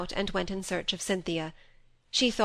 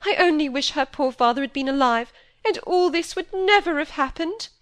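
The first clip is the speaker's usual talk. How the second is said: higher, louder aggrieved wail; tearful complaint; 7 semitones higher, 5 dB louder than usual. A narrator's reading. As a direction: whine it as a wronged mother. Mrs Gibson's aggrieved complaint.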